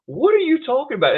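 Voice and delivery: retelling his disbelief at the hotel desk; incredulous. Retold or imitated. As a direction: sound baffled by the clerk. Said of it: "And I'm like".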